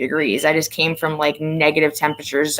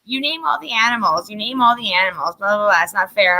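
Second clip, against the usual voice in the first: higher-pitched mock complaint; kids' protest; 4 semitones higher than usual. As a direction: imitate kids protesting unfair treatment.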